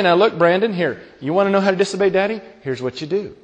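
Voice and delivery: soft mock lesson for a child; confiding parent. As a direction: drop the voice as if coaching a child in secret.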